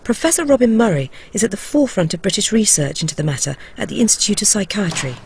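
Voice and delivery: measured, close-up narrator read; documentary voice-over. A narrator's reading. Reporter telling viewers how the drug feels, documentary voice-over. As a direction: narrate your own experiment in deliberate phrases.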